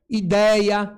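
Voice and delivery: "ideia" with a loud second syllable; stressed example word. Shown as a demonstration. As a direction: lean firmly on the middle of "ideia". Teacher showing word's stressed open diphthong.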